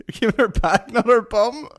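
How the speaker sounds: mimicking Scottish guy. Quoting the man in the clip, mock Scottish. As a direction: repeat the Scottish man's correction. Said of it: "He's like".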